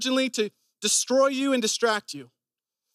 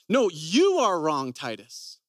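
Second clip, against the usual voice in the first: condemning, slow; 5 semitones lower, slower than usual. Retold or imitated. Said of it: "It's an identity statement".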